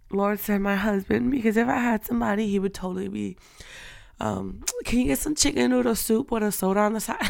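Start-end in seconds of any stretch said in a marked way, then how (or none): 4.8-7.2 fast, giggly pleading request; laughing mock request. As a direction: giggle while asking for soup. Imagined sick request to husband.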